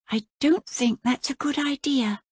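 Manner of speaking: put-on high curious girl's question; young princess. A narrator's reading. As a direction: lift it up like a wide-eyed girl. Voices the princess.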